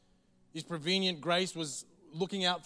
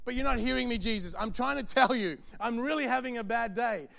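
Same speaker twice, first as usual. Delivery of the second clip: exasperated complainer; 4 semitones higher, 4 dB louder than usual. Acted. Mock frustrated believer to Jesus.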